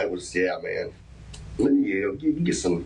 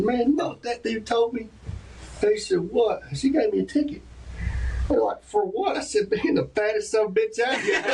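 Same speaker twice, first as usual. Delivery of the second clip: higher, laughing through the punchline; retelling the joke, laughing; 10 semitones higher than usual. Retold or imitated. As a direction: build to the joke while laughing.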